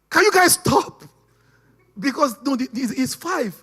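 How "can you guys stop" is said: put-on high, loud pleading yell as a small boy; a child begging his parents to stop; child's shout. Five-year-old shouting at his fighting parents to stop. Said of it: "He was shouting on his parents".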